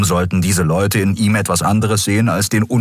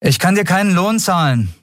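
higher female captain voice; captain's voice; 12 semitones higher than usual. Acted. Captain Nagun to Miko about no pay, higher voice. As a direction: say it plainly, a bit sorry.

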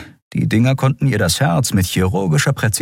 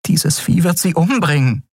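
desperate; 11 semitones higher than usual. Acted. Miko despairing in thought.

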